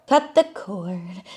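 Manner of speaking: slow, stretched-out repeat; drawn out. Acted. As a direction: linger on each word of the phrase.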